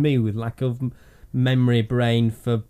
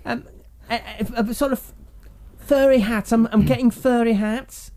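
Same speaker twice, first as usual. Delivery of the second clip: psychic medium voice; 8 semitones higher than usual. Pretend. Mock psychic receiving visions.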